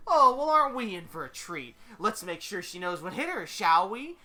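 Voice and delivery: high, loud, relishing villain; showy, delighted troublemaker; Deadpool, gleefully menacing. Acted. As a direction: savor the coming fight out loud.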